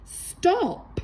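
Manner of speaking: sudden high squawk; parrot squawk. A narrator's reading. Polly the parrot stops the fighting pirates, high squawk. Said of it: "until Polly squawked".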